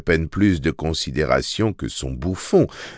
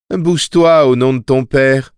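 higher-pitched, mildly commanding; comic's order; 5 semitones higher, 4 dB louder than usual. A narrator's reading. The comic orders the girl to move, commanding. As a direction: order someone to get moving. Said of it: "ordonna le comique".

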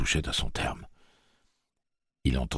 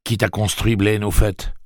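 désespoir; 7 semitones higher, 7 dB louder than usual. A narrator's reading. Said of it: "demanda Eddie au désespoir".

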